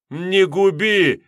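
slow, high, loud plea for mercy; begging. A narrator's reading. Kocherysh begging the master for mercy, desperate. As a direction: drag it out, pleading desperately.

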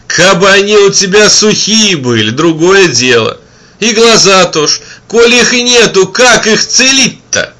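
wanderer. A narrator's reading.

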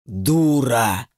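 the demon spits it out in disgust; a lightly voiced demon, contemptuous; with a touch of revulsion, a demon's jeer. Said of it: "сказал демон с отвращением".

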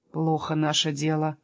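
low, subdued foreboding; gloomy. Acted. Jesper seeing Bastian coming for them, low and gloomy. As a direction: let the voice sink gloomily. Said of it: "помрачнел Еспер".

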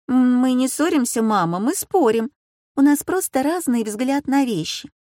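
высокий, горячий голос девочки-подростка; оправдывайся, повышая голос; взволнованная дочка. A narrator's reading. Дочь оправдывается перед матерью. (дочь горячо оправдывается перед мамой, голос выше)

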